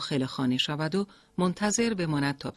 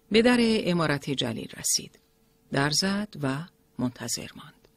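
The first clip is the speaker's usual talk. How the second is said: ordinary delivery, nothing marked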